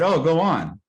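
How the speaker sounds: lifted voice, imitating someone giving way; eager yielding. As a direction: act out a caller urging someone to speak. Acts out phone partner yielding.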